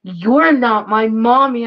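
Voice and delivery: slow, drawn-out mock accusation; imitated child protest. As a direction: draw out a child's mock disowning. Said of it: "He goes".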